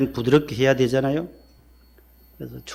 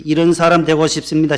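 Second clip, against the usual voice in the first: leading a call-and-repeat; 2 semitones higher, 5 dB louder than usual. Shown as a demonstration. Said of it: "따라합시다".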